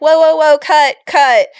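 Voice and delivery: stopping the game. Retold or imitated. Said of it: "And I'm like".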